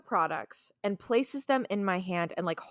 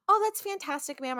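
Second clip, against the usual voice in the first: mock polite clerk; 6 semitones higher than usual. Polite retail voice to customer.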